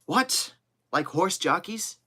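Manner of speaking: high, startled questioning; astonished disbelief. Acted. Kennedy told by Joe he'll be weighed, astonished disbelief. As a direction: jump up in pitch, aghast at the idea.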